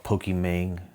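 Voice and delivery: Pokemon with a drawled "mayng" ending; Pokemon rhymed off with a street-slang "mayng"; playful mispronunciation. Pretend. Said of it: "a Hustle and Flow version".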